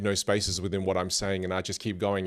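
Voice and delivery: fast run-on talk with no breaks between phrases; rushed, no pauses. Shown as a demonstration. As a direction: rattle it all off in one breath so it blurs. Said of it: "Watch what happens if I just keep talking without pauses".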